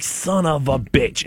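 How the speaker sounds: slow, drawn-out grumbled curse; pissed-off curse. Retold or imitated. Stuck car won't budge, slow muttered curse. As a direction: let it drag out under your breath. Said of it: "And I'm pissed off".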